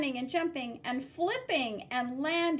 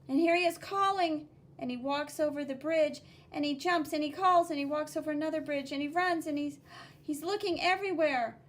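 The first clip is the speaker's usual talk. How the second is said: higher, louder anxious telling; urgent narration; 4 semitones higher, 5 dB louder than usual. Acted. Teacher telling the frantic search, higher and louder. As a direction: build the worried search.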